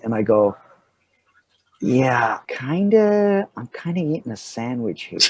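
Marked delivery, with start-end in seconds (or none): 1.8-5.2 sheepish hedge. Retold or imitated. Actor caught eating by the assistant director, sheepish.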